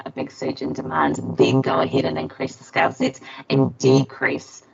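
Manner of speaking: glitchy robotic audio; distorted robot-like mic. Real, not acted. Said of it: "you're speaking in a very robot voice".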